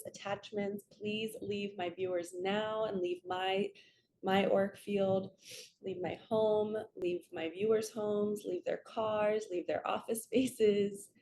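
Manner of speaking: earnest invocation to the archangels, steady and devout; spiritual prayer. Real, not acted. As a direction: call on the angels as if opening a sacred space. Commands lower energies to leave.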